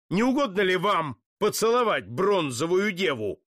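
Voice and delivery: scornful mockery. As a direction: throw their joke back in their faces. Putilin mocks the "holy joke.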